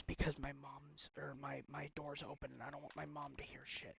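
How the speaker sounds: hushed so mom won't hear; quiet secretive voice; whisper. Real, not acted. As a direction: keep it down, door's open. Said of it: "I'm gonna whisper this".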